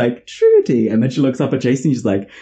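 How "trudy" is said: incredulous repeat. Retold or imitated. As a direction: repeat it in disbelief. Grandma repeating name disapprovingly.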